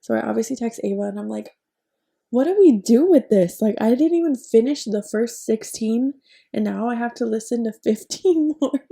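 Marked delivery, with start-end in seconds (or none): 2.3-8.8 overwhelmed. Retold or imitated. Overwhelmed text to friend.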